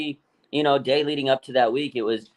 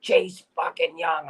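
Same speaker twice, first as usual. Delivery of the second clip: slow, emphatic, a bit higher; hyped announcement; 5 semitones higher, slower than usual. Retold or imitated. Coworker breaking the trade news, slow emphatic hype. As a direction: drag out each word like big news. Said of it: "He goes".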